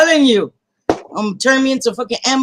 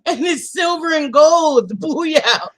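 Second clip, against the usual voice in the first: laughing mock pitch; slower than usual. Real, not acted. Mocking husband's sales pitch.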